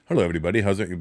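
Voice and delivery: stiff Indian-accent greeting. Shown as a demonstration. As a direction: do an Indian voice, held straight. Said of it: "can't just do an Indian voice, like, and be straight".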